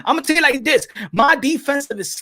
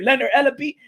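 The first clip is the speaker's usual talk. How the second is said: imitating Tank Davis. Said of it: "it's time for Gervonta Tank Davis to tell Floyd Mayweather".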